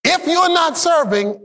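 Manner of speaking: "If you're not serving" slowly, every word weighted; slow emphatic. Shown as a demonstration. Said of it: "Just want you to get this".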